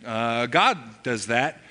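a hint of a nervous crowd whispering among themselves; nervous murmur. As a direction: mutter it nervously to your neighbour. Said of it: "kind of nervously going".

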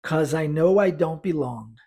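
slow, even practice line; slow repetition drill. Shown as a demonstration. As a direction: pace it slowly for students to echo. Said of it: "Vamos repetir?". (repetição lenta para praticar)

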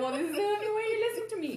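quick, laughing snippy retort; mock snippy. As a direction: fire it back snippy and fast. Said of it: "I'm like".

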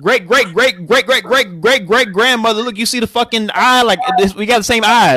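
hammed-up homecoming excitement; mock excited discovery. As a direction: play at spotting a long-lost relative. Acting out an imagined African homecoming.

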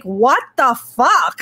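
drawn-out, slow disbelief; slow incredulous swear; stunned outrage. Retold or imitated. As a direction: stretch every word in shock. Relatives blamed mother for death.

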